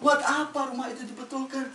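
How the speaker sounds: reproachful Musa. Acted. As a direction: question him with mild reproach. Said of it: "dia langsung menegur Nabi Khidir". (Nabi Musa menegur, agak tinggi dan heran)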